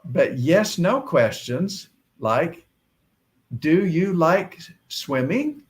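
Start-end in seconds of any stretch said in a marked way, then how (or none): 3.6-5.6 swimming lifted up at the end; rising yes-no tune. Shown as a demonstration. Teacher showing students the rise on swimming. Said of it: "Yes or no questions go up".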